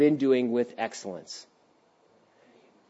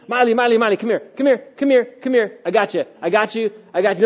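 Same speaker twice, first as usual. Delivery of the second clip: calling daughter close; 6 semitones higher, faster than usual. Retold or imitated. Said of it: "What she needs, I've noticed, is".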